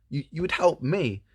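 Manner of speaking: high-pitched, hopeful princess. Acted. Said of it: "And she goes".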